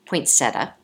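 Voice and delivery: poinsettia with a Chicago accent, said poin-SET-uh. Shown as a demonstration. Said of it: "with my Chicago accent".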